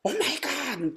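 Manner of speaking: high, softened mock squeal; imitated overjoyed gasp. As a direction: act out a winner thrilled to bits. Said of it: "온몸을 드르륵 떨면서 기뻐하는".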